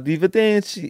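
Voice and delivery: high, hammed-up Italian arrivederci; Italian goodbye. Shown as a demonstration. Host says goodbye in mock Italian. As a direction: sing out a cheesy Italian farewell. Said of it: "that's Italian".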